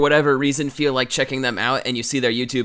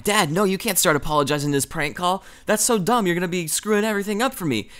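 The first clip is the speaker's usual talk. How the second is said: exasperated protest; 5 semitones higher than usual. Retold or imitated. Retold argument with his dad.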